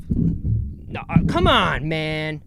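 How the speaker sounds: grumbling like a dad; exasperated dad. Real, not acted. Podcaster fighting with his equipment, dad-like exasperation. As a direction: plead with a stubborn object, lightly exasperated. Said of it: "I'm sounding like a dad".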